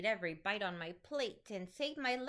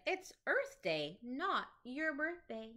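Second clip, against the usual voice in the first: slow, heavy hippo voice, a touch louder; slow hippo correction; 2 semitones higher, slower than usual. Acted. Hippo turns to Monkey, slow and emphatic. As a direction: drag it out like a big hippo. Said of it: "loudly cried".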